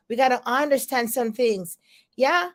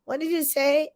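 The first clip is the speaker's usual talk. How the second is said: mock puzzled folks, a bit higher; puzzled listeners; 4 semitones higher than usual. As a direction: imitate people who didn't catch it, asking twice. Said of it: "sometimes folks be like".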